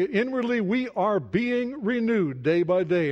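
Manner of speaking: slow, high emphasis on "inwardly we are being renewed"; emphatic. Shown as a demonstration. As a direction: lean slowly into "being renewed", pitch lifted. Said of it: "where Paul put the emphasis on it".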